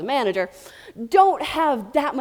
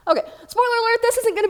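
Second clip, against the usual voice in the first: high, louder laugh through spoiler alert; 13 semitones higher, 4 dB louder, faster than usual. Real, not acted. Speaker laughing off flipping slides, laughing. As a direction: laugh it off and push on.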